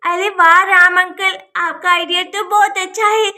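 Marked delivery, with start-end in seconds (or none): 0.1-1.4 excited cheer. Acted. Sonam delighted by the idea.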